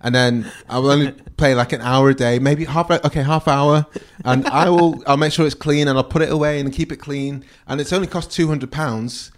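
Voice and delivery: lightly acted kid pleading their case; earnest bargaining, retold with amusement; child's sales pitch. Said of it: "The sales pitch".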